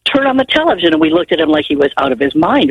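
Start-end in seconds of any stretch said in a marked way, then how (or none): 0.1-0.9 retold holler. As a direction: imitate the boss calling out, pitched well up. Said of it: "hollers up the door".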